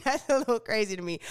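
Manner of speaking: laughs then says it quickly; amused, quick laughing remark. Real, not acted. Laughing reaction to the news.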